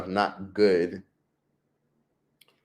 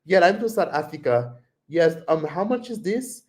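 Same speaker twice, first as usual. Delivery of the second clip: put-on pitched up with an Indian accent; imitated Indian accent; 5 semitones higher than usual. Answering a vendor, imitated Indian accent. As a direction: pretend to be South African in Tyler's Indian accent. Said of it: "that's how Tyler talks".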